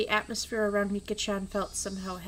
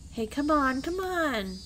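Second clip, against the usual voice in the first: higher-pitched, pleading character voice; acted chiding, rising higher; coaxing protest; 5 semitones higher, slower than usual. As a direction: urge them to drop it, pitch climbing.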